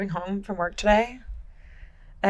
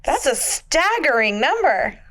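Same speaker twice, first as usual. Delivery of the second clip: customer service voice; 5 semitones higher, slower than usual. Retold or imitated. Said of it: "What was that word you used earlier?".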